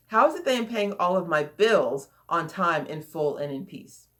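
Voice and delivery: "bills" leaned on, ending dropping away; stress on BILLS. Shown as a demonstration. Coach drills the affirmation question, stress on "bills". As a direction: put the weight on the word "bills". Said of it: "stressing different words in the question".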